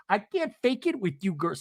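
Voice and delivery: high put-on impression; lightly mimicked dramatic confession; Seth Marks. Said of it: "Starts sounding like Seth, Seth Marks".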